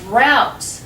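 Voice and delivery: "drought" with an ow vowel, set apart; ow sound. Shown as a demonstration. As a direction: say "drought" to rhyme with out. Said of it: "can be pronounced like ow".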